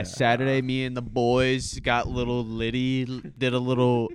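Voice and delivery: slow lazy bro voice; frat bro. Pretend. Mock frat bro bit.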